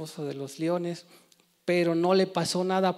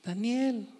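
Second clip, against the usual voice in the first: mild retold call, higher and drawn out; llamado a gritos; 6 semitones higher, much slower than usual. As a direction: imitate calling out a name, pitched up without full shouting. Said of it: "le gritaba". (llamado a gritos imitado, agudo y alargado)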